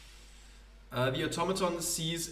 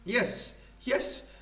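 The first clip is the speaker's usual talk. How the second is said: higher, grand theatrical poet voice; pompous poet; 7 semitones higher than usual. Acted. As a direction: play a self-important wandering poet. Poet agrees to teach.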